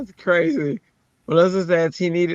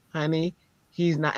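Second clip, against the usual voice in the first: softer, retold parental correction; hushing parent; 5 dB quieter than usual. Mom corrects Pebbles in the store, hushed.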